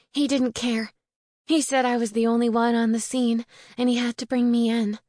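lightly voiced upset witch, pressing her case; distressed young witch.

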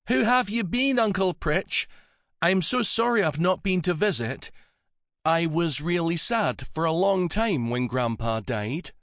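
put-on high-pitched, tender young woman; gentle young woman. A narrator's reading. Melanie apologizing to her old uncle, high gentle voice. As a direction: speak gently to a frail relative.

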